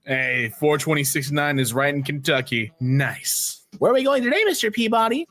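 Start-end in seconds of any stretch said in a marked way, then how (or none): 3.8-5.3 Sherman voice. Acted. Sherman quote.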